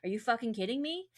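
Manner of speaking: mock-indignant wronged wife; indignant outburst. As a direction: throw the betrayal back at him, half in earnest. Betrayed wife's outraged reply, retold.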